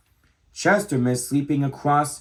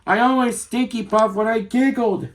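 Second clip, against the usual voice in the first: little skunk voice; 9 semitones higher than usual. Acted. Skunk character voice.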